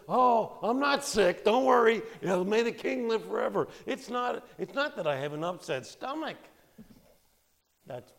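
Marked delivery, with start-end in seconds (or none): 0.1-3.7 higher and louder, hurriedly reassuring the king; eager reassurance. Retold or imitated. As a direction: brush off the worry, overly bright. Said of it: "And so he says".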